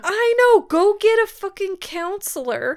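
high, loud outraged agreement; high loud exasperated rant; exasperated shout. Real, not acted. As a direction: yell in shared frustration.

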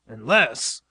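retort. A narrator's reading. Professor counters Stanley's plan, retorting. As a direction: cut in with a doubt. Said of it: "retorted the professor".

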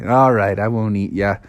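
low, dropping concession; grudging surrender. Acted. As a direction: give in with a grumble. Bear reluctantly gives in.

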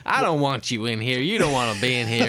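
mock American accent; hammy American telling off an intruder. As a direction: put on an indignant American accent. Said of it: "it's Americans all the same".

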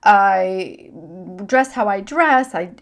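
high, loud mock protest of a defensive listener; hammed-up defensive denial. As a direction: play someone insisting they're fine. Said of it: "if you're quick to answer".

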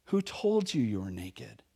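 low, slow and soft divine question; stern God. Acted. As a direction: ask it slowly and gravely from above.

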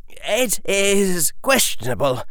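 put-on a composed boy answering a lord; young boy voice. A narrator's reading.

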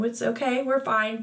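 lightly imitated parental reassurance; reassuring. Daughter retells mom calming her about the bill, reassuring. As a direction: soothe a worried child, gently. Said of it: "You assured me that".

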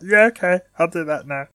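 high little cartoon creature voice; Chikorita. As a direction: squeak an agreeable reply as a cartoon creature. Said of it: "Chikorita will be like".

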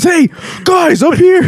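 high calling voice; mock call from above. Retelling scene to co-host, high mock call. Retold Steve Martin calling.

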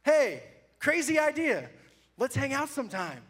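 reading his daring invitation as a grand announcement; reading his bold post. Retold or imitated. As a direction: build it up like a big proposal. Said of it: "It's the next slide".

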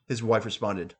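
plain reading voice

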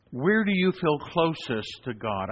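slow and searching; posed question, slowed down; slow, deliberate question. Shown as a demonstration. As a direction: ask it slowly, letting each word land. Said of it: "I always ask people the same question".

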